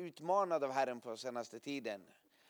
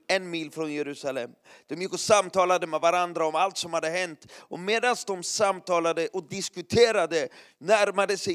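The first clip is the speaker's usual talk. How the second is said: scripture reading; 3 semitones higher, 9 dB louder than usual. Acted. Reads Luke 24 over music.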